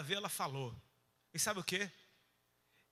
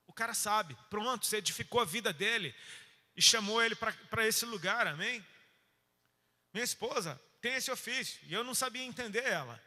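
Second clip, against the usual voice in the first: normal talking voice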